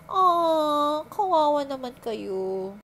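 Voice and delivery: slow, drawn-out show of sympathy; mock pity. Talking to typhoon victims stuck on a roof, mock pity. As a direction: coo with insincere pity, taking your time.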